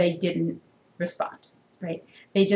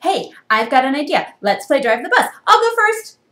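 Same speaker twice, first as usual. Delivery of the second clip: scheming pigeon; 8 semitones higher, 10 dB louder than usual. Acted. Pigeon's sneaky idea.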